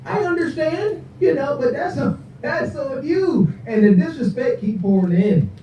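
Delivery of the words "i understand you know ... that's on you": put-on high, soft patronizing girlfriend voice; syrupy mock sympathy, slowing at the end; fake sweet condescension. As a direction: purr it sweetly but condescend. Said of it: "Now she like".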